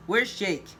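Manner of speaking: a contained yell. A narrator's reading. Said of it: "Leon yells".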